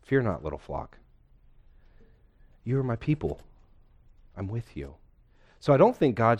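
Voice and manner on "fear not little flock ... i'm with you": tender reminder. Retold or imitated. God reassuring his fearful people, tender. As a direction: speak it like a father soothing his child. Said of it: "It's a tender, loving reminder".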